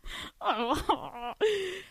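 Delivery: drawn-out comic wail; hammed-up wordless whimper; mock crying. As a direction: fake a sob for the story. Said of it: "I'm crying".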